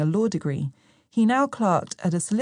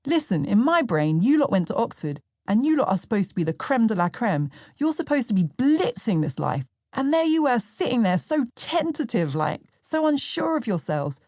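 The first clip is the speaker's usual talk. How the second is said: higher, quicker, insistent storytelling voice; voicing Sam, animated; 5 semitones higher than usual. Sam explains his shock at her friends, lightly voiced and insistent. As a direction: press the point with wide-eyed disbelief. Sam's recalled words, voiced.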